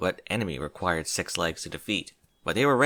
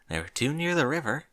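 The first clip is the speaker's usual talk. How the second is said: timid Fluttershy voice; 5 semitones higher than usual. Acted. Fluttershy counting.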